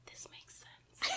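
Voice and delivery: slow, barely-there whisper; ASMR whisper. Pretend. Host proving she can whisper to her sister, slow whisper. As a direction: play at whispering, very slowly. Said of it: "this is an A S M R".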